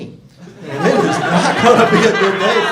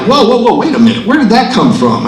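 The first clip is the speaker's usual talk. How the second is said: high startled whoa, whoa, whoa; 7 semitones higher, 8 dB louder than usual. Retold or imitated. Comic shocked at a pop-up ad. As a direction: jump back in mock alarm at the screen. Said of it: "And I'm like".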